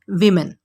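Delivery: वीमेन said WIM-in; वीमेन with a short "wi"; correct pronunciation. Shown as a demonstration. Teacher drilling women. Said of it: "आपने बोलना है".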